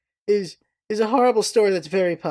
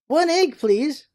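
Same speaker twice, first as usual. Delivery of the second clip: raccoon ordering; 7 semitones higher, slower than usual. Retold or imitated. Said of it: "he goes".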